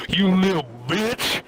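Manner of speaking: mock angry scream. Retelling the driver seeing blood on the seat, mock scream. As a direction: swoop up on the last word in mock fury. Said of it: "and he screams at me".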